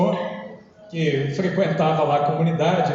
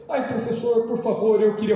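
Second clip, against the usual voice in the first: lightly voiced over-polite student, higher pitch; ceremonious student; 4 semitones higher than usual. Student asking the teacher for something, mock ceremonious. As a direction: imitate a student's hesitant, ceremonious request. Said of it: "com muita cerimônia pra pedir".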